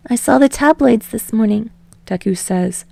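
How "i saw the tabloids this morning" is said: rambling. Acted. Deku rambling to Bakugo on the phone, higher and eager. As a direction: babble on nervously without a breath.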